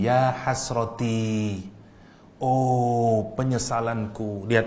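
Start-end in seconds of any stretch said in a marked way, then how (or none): 0.0-1.6 "Ya hasroti" said slowly, ending in a clear i; slow teaching read of "Ya hasroti"; original form hasroti. Shown as a demonstration. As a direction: drawl out "hasroti" with the final i. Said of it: "Asal kalimat ini ngomongnya begini".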